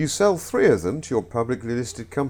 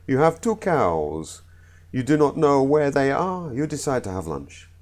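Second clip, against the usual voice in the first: put-on Italian accent. Comedian telling the Italian two-cow joke, Italian accent. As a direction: do a rough comic Italian accent. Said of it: "Excuse my accent".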